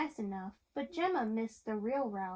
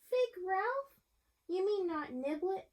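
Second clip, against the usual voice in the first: much higher, startled question; surprised boy; 7 semitones higher than usual. A narrator's reading. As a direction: squeak it out, surprised. Boy character asks surprised.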